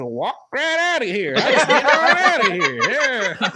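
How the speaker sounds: breaking into laughter mid-line; giggling exit line; laughing. Real, not acted. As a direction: laugh your way through it, pitch climbing.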